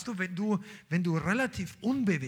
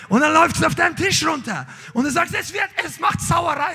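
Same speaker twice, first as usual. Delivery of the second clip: much higher and louder, driving it home; rising preaching shout; 10 semitones higher, 9 dB louder than usual. Real, not acted. Preacher shouting to the church about overflow, higher and louder. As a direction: preach it out at full force. Preacher building to full force.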